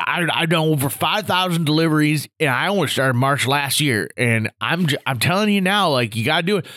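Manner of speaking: lightly voiced boastful old-timer; a hint of a know-it-all grandpa; Gramps' voice. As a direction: imitate an old veteran holding forth. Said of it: "Gramps Grant's talking like this".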